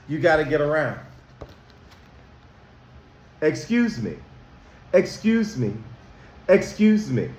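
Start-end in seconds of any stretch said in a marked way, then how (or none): 3.4-7.3 gentle, courteous excuse me; polite kind voice. Shown as a demonstration. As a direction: say it kindly while squeezing past. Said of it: "in a polite, kind voice".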